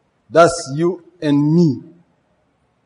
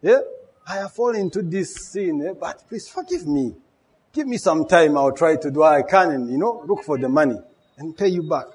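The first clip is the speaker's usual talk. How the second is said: pleading for mercy; 2 semitones higher than usual. Retold or imitated. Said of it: "he beg for mercy".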